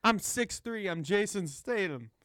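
mock London accent drifting off course; Jason Statham turning Walken. Co-host bragging as the actor, wobbly Statham impression. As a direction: attempt Cockney and let the cadence wander. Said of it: "Why did my voice go to Christopher Walken?".

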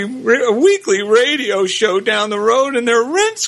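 pleading, voice cracking with emotion; choked-up plea for two poor souls; voice breaking with emotion. Acted. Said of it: "he said in a voice breaking with emotion".

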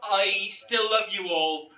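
loud, drawn-out mock drunken gushing; hammed-up tipsy lovesick cry; drunk declaration of love. Drunk phone call to exes.

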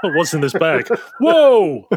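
peeks in, then a high startled whoa; mock shock at what's inside; surprised. Acting out opening the bag.

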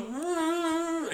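high, toneless-worded mock hum; piss-poor Stephen Hawking. Comic attempting an impression for the crowd, deliberately poor hum. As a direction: hum a bad celebrity impression. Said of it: "tried to do a piss poor Stephen Hawking".

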